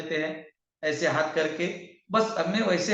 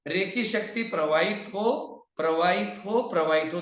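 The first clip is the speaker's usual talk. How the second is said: reciting a healing mantra. Shown as a demonstration. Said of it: "तीन word है".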